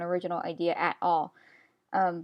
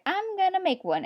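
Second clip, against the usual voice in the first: excited resolve; 10 semitones higher than usual. Retold or imitated. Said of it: "I was like".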